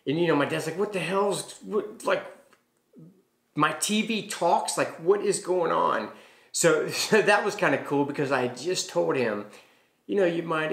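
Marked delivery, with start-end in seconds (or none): 0.8-6.1 startled disbelief. Retold or imitated. Dad startled by talking TV.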